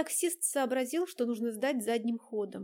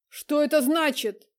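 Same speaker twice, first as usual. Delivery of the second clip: loud, slow, jealous challenge; angry demand; 4 semitones higher, 9 dB louder than usual. Acted. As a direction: bear down on him, demanding. Влад бросается к сопернику. (громкий ревнивый напор)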